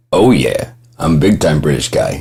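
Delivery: imitating a thick New England accent. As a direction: mimic a friend's thick Boston-type accent. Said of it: "this thick ass New England accent".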